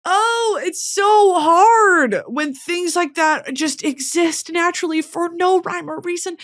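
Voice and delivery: overwhelmed and weepy; tearful. Real, not acted. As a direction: plead through real tears, voice high. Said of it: "Why am I crying?".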